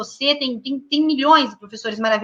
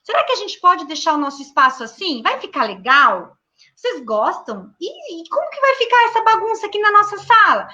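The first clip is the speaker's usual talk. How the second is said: higher, singsong questions to the class; teacher addressing the class; 4 semitones higher than usual. Shown as a demonstration. Teacher asks her class how the messy room should look, playful coaxing. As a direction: coax the children into tidying up. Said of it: "Eu falo".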